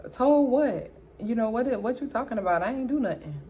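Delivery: defensive denial. Retold or imitated. Acted denial to questioning sister.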